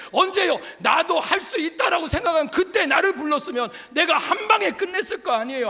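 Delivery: 높고 크게 외치듯 설교; 회중을 향해 힘차게 몰아붙이는 설교; 열정적인 설교. Acted. Preacher's rising question chain. (설교자가 회중에게 힘주어 외치는 설교)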